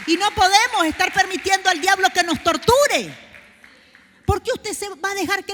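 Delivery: loud, rising sermon cry; full-force preaching. Acted. Preacher to the congregation, full-force preaching. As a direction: build the sermon up to a shout.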